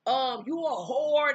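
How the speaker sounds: going off. Retold or imitated. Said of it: "started going off".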